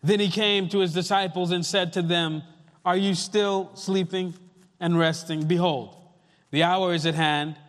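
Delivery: measured, solemn Bible reading with weighty pauses; deliberate pulpit reading, phrases falling at the ends; scripture reading. Acted. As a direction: read the passage out to a congregation, phrase by phrase. Reads scripture to the congregation.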